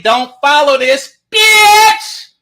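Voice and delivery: rising yelled bitch; mock-outraged quote; quoted insult, first take. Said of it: "Now I gotta say it like Short".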